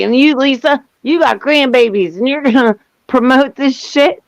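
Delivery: mildly mocking angry mimicry; pissed off. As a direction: imitate an indignant friend's reproach with a laugh breaking in. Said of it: "he is so pissed off".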